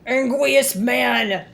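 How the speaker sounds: slow, drawn-out hammed-up anger; mock angry man. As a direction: stretch it out like a cartoon grump. Joining the mock angry man bit.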